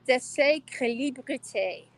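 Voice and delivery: careful, slow French attempt at "déséquilibrité"; "déséquilibrité" spelled out syllable by syllable in French; trying out French. Shown as a demonstration. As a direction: sound out "déséquilibrité" as a learner of French. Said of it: "How did I do?".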